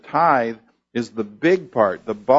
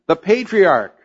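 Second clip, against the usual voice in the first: "patriarch" raised high and louder, falling at the end; stress on patriarch; 5 semitones higher, 4 dB louder than usual. Shown as a demonstration. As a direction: punch "patriarch" as the climax of the verse. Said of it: "emphasis on those two words".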